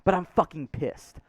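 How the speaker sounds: forced calm. Real, not acted. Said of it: "I'm trying to stay calm".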